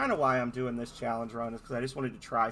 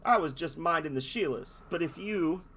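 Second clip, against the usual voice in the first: loud, hammed-up Australian bloke; Australian accent; 3 semitones higher, 4 dB louder than usual. Dolphin in an Australian accent complaining about the lighthouse. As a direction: threaten like a rough Aussie larrikin. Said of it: "those players who don't speak Australian".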